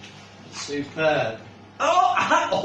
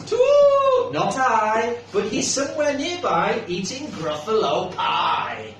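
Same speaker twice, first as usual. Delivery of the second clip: hooting owl voice. Acted. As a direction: shout it out like a proud owl. Owl answers in story.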